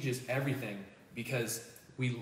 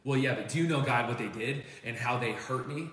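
aggrieved protest, voice raised; indignant; 6 dB louder than usual. Retold or imitated. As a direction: complain with a wounded edge. Indignant complaint to God.

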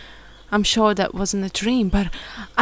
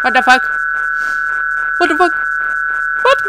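startled; 7 semitones higher, much faster than usual. Real, not acted. Startled by monster in game.

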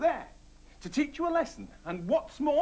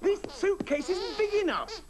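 laughing; 9 semitones higher than usual. Real, not acted. Joke at end of packing list.

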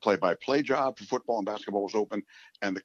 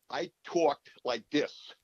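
put-on old New York accent; 6 semitones higher than usual. Shown as a demonstration. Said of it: "the thickest New York accent you've ever heard".

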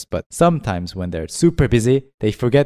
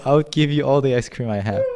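laughing; 3 semitones higher than usual. Real, not acted.

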